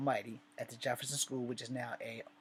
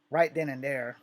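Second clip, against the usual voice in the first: punchy emphasis; 2 semitones higher, 9 dB louder than usual. Real, not acted. Build-up to the confrontation.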